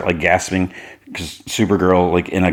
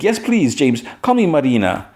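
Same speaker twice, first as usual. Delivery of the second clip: high flirty princess; 8 semitones higher than usual. Retold or imitated. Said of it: "She's like".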